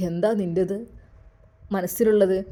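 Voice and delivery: put-on an elderly father weighing his words; elderly father-in-law. In-laws voiced in story. (താഴ്ന്ന ശബ്ദത്തിൽ പ്രായമായ അച്ഛൻ)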